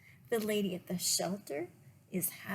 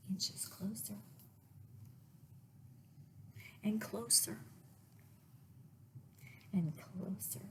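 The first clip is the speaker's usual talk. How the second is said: suspenseful whisper; 7 dB quieter than usual. A narrator's reading. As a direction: build quiet suspense. Suspense as Max creeps closer.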